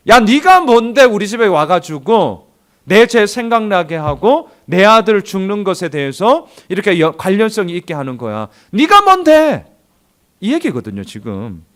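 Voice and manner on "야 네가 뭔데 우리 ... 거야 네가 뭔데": indignant retort. Acted. Preacher acting the widow snapping at Elijah, indignant. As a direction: throw it back at him, offended.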